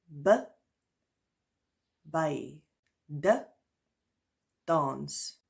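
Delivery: careful letter then word, each said clearly in Afrikaans; slow, spaced dictation of letters and words; teacher reading out the Afrikaans alphabet. Shown as a demonstration. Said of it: "I'll pronounce it as we would in the Afrikaans language".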